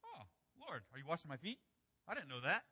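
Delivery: casual, mildly puzzled question; mild innocent surprise. Shown as a demonstration. Preacher shows how Peter did not say it, mildly surprised. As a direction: ask it as if just finding out. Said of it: "he's not saying".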